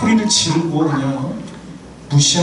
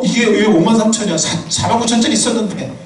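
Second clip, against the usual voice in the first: mock rising voice; 3 semitones higher than usual. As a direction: voice climbs in a mock complaint. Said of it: "목소리 올라가는".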